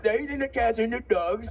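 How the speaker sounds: a slightly surer, still lightly voiced Trump; improved Trump impression. Comic claims he can really do the impression, lightly voiced Trump. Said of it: "I can really do a good impression".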